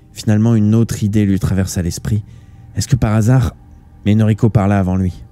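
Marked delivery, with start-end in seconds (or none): none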